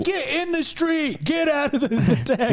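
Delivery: mock cabbie voice. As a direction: drag it out in a silly high voice. Friend mimics the exchange.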